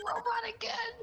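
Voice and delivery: very high, amused squeal; high-pitched exclamation. Real, not acted. Friend hearing robot glitch return, high-pitched exclamation.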